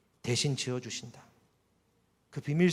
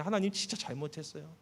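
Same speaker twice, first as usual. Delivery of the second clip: pleading prayer; 3 semitones higher than usual. Retold or imitated. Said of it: "속으로 기도하고 말 거는데".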